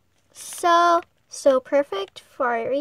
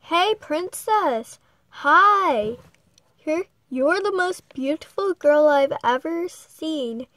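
calling out; 3 dB louder than usual. Acted. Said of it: "he called".

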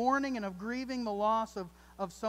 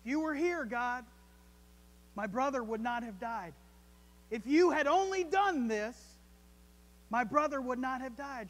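Mary's lament; 2 semitones higher, 4 dB louder than usual. Retold or imitated. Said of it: "Mary had the same reaction".

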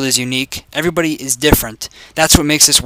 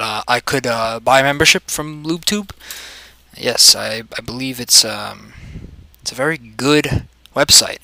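lightly voiced character, soft and halting; hesitant, quieter put-on voice; deadpan awkward member character; 3 semitones lower, 4 dB quieter than usual. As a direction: play an awkward customer, trailing into ums. Plays a LubeTube member.

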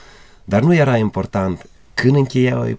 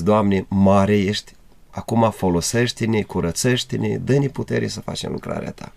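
earnest prayer. Retold or imitated. Retold prayer to God.

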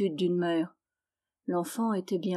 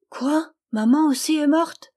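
put-on high, loud, shocked little girl; a child hearing her mother died; high shocked cry, almost whispered; child's cry; 7 semitones higher, 7 dB louder than usual. A narrator's reading. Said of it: "cria la petite fille".

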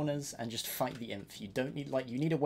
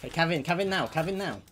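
calling out; 3 semitones higher, 5 dB louder than usual. Real, not acted. Calling cavalry charge in battle.

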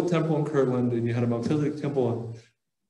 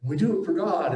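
mock proud ancient Jews; 5 semitones higher than usual. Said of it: "they're like".

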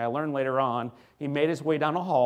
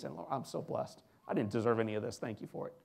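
soft, dropping almost to a whisper; hushed gratitude; 3 semitones lower, 8 dB quieter, faster than usual. Acted. Moved parent giving thanks for a baby, hushed. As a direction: murmur thanks as if humbled. Voices being moved to grateful tears.

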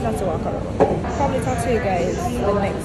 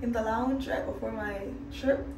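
tired and quiet; 9 dB quieter than usual. Real, not acted. Tired late-night hotel room.

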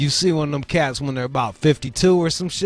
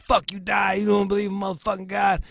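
higher-pitched mock tirade; retold angry rant; 7 semitones higher, faster than usual. Woman cursing a man on the phone, angry. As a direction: imitate her raving.

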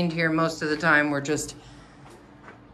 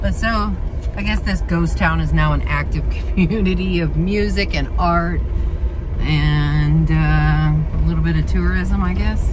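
talking while bouncing in a car; on a bumpy road; 4 dB louder than usual. Real, not acted. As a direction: voice jolted by bumps. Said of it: "And sorry about the bumpy".

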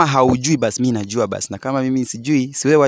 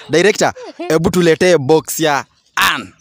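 calling out; 5 semitones higher, 4 dB louder than usual. Real, not acted. Calling out to the director.

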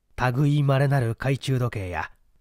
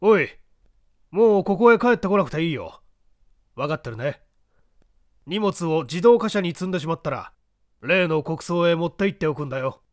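gentle instruction to henchman; 2 semitones higher than usual. Acted. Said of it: "その男に言った".

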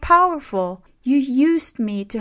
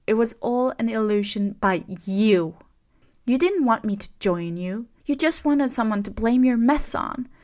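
trembling angry outburst; 3 semitones higher, 6 dB louder than usual. A narrator's reading. Rey accusing Kylo of betrayal, shouting with a trembling voice. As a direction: hurl every word at him, shaking. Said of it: "Her voice trembled".

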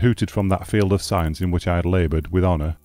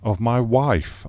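slow, higher, pressing; impatient; 5 semitones higher, much slower than usual. Acted. Husband answering the host, impatient for his wife. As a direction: urge it out impatiently. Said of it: "I replied impatiently".

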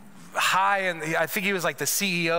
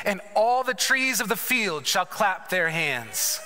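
scripture reading. Acted. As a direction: read Isaiah as a blessing over them. Reads scripture aloud.

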